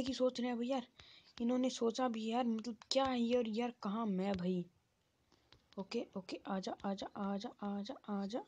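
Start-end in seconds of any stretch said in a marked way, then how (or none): 5.8-8.4 soft, rising little calls; beckoning. Real, not acted. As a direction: coax the enemy closer in short, softer bursts. Beckoning the game opponent closer.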